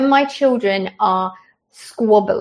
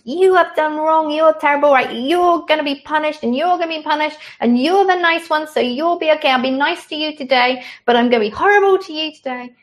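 higher and louder, a mock scolding judge on a cloud; hammed-up wrathful god handing out punishments; stern judging God; 7 semitones higher, 4 dB louder, faster than usual. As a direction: lampoon a harsh, fickle deity passing sentence. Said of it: "think God is like some person sitting on a cloud".

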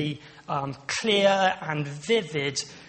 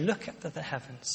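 much softer, gentle and hushed; tender; 7 dB quieter than usual. Retold or imitated. God gently leading Abraham outside, soft and tender. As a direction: speak it with an arm around his shoulder. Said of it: "You can almost see God putting his arm around Abraham".

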